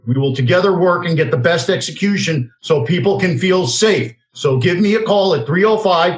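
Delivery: a personal pitch read for his loan business, slowing down on the phone number; a talk-show host reading his own ad, lightly salesy; radio ad read. Acted. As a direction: sell it like a host's own sponsor spot.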